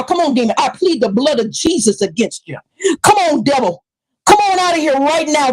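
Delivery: a hint of a preacher casting out demons; lightly voiced preacher rebuking a demon; mock exorcism. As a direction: pretend to drive the devil out of her.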